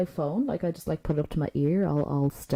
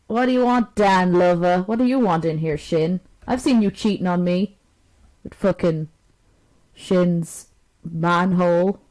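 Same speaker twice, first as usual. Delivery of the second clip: loud, hammed-up accusing partner; over-the-top fake jealous outburst; mock jealous yelling; 6 dB louder than usual. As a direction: play the jilted lover, loudly and fake.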